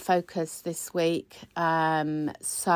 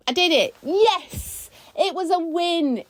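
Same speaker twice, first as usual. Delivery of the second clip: higher, cheering yes; triumphant; 9 semitones higher, slower than usual. Real, not acted. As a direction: punch the air with it. Celebrating finishing the video.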